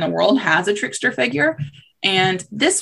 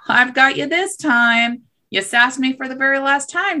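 gloating fox; 6 semitones higher than usual. Acted. Fox taunts the stuck rabbit, gloating. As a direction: savor catching your enemy.

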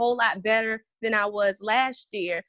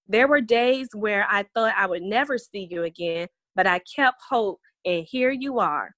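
put-on reading a child's letter. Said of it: "It says".

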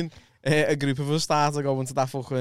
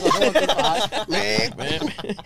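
a very slow, drawn-out, higher goodbye; mock farewell; 7 semitones higher, much slower than usual. Watching his mate wheelie off, a drawn-out mock goodbye. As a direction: stretch the goodbye out teasingly. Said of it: "so I was like".

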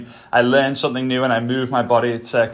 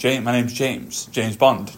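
a light, slowish, softer hint of a suave Bond delivery; James Bond line; 3 semitones lower, 3 dB quieter, slower than usual. Naming himself to people like Bond, lightly suave. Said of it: "Like James Bond".

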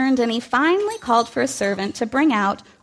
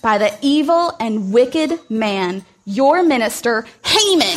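accusing Esther. Acted.

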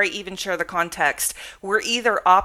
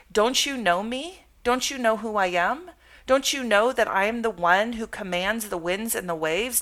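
gentle Jesus; 2 semitones higher than usual. Acted. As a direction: voice Jesus gently, as if asking close friends. Voices Jesus speaking to disciples.

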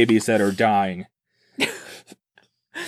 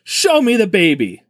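a bit louder, pushing the demand; mild mock yell; 5 semitones higher than usual. The speaker retelling how he yelled at Crescent, mild yell. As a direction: call it out firmly, half-yelled. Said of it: "I had to yell it out three times really loud".

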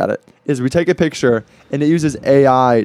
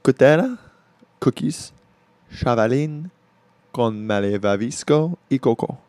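Spanish pronunciation; 4 dB quieter than usual. Shown as a demonstration. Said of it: "Introduce the cookie for me".

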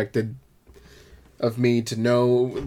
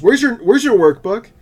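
high, loud demanding teacher; teacher scolding a kid walking past, high and loud; mock teacher; 11 semitones higher, 9 dB louder than usual. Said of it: "she goes".

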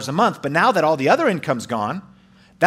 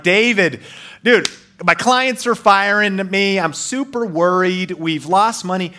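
higher, slow, anxious pleading to a friend; worried plea; 5 semitones higher than usual. Retold or imitated. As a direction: beg a mentor for help, voice pitched up and dragging. Panicked call to his mentor.

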